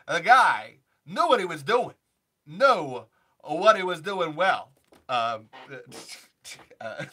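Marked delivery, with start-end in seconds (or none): 0.1-1.9 Walken impression. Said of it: "Christopher Walken". 2.5-4.7 Walken impression, slower. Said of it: "Christopher Walken".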